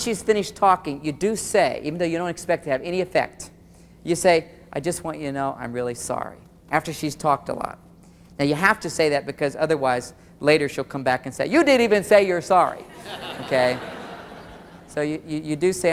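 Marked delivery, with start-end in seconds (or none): 4.7-6.4 softer, lower, earnest sorry; sincere apology. Shown as a demonstration. Models the sincere apology after listening. 11.5-12.8 mildly indignant imitation of a wife; accusing complaint. Acted wife's later complaint.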